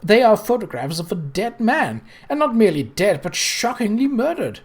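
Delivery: mock horror at the idea; a touch of prim shock; shocked protest. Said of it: "protested in a shocked voice".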